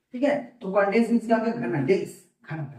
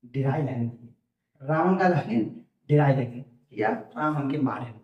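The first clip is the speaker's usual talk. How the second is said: frightened Ravan; 6 semitones lower than usual. Acted. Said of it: "एक समय आ गया क्रावन मतलब रावण".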